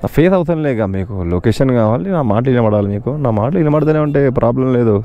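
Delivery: muffled, talking inside a helmet. Real, not acted. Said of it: "helmet పెట్టుకొని మాట్లాడుతున్నా".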